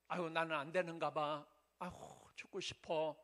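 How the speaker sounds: low, sighing hopelessness; mild acted despair. Preacher voicing a despairing believer, low and sighing. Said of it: "이런 부정적인 생각을".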